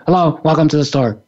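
fast, rote store greeting; mechanical greeting. Shown as a demonstration. Clerk greeting an unseen figure, fast and mechanical. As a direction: say it without looking up. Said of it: "mechanical reaction".

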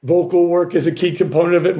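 slightly hoarse, worn-out voice. Real, not acted. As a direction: voice a bit shot after singing. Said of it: "My voice might sound a little shot".

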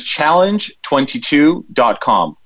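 slow and deliberate, every word clear; slow, clear dictation. Shown as a demonstration. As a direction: spell out the address slowly. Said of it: "giving the web address".

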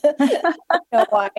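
real laugh breaking into the words. Real, not acted. Mother puzzled by his red skinny jeans, laughing. Laughs at odd detail of dream.

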